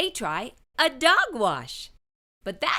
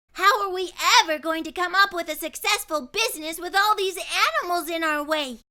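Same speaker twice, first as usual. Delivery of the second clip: despairing; 8 semitones higher, faster than usual. A narrator's reading. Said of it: "she despaired".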